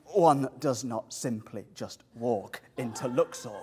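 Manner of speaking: solemn mock-epic warning, hinting at a character voice; Boromir. Preacher imagines Moses balking at going to Pharaoh, light Boromir impression. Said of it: "pitch Moses as Boromir from The Lord of the Rings, filled with fear and saying".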